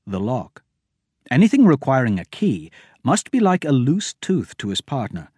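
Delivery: ordinary talk, nothing marked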